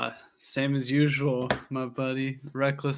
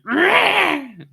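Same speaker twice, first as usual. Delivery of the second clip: gecko chirp; 7 dB louder than usual. Acted. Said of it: "bust out her, uh, gecko impression again".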